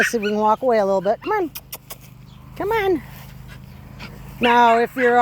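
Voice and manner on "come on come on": high happy call. Real, not acted. Owner calling her puppy back, high happy call. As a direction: pitch it way up, bright and inviting.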